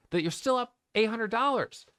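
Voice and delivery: calm yourself down mid-stream; reassuring self-talk. Real, not acted. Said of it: "I'm reminding myself in real time".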